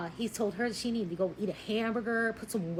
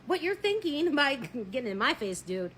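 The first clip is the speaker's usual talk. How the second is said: exasperated inner rant; 8 semitones higher, 5 dB louder than usual. Retold or imitated. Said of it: "And I'm thinking".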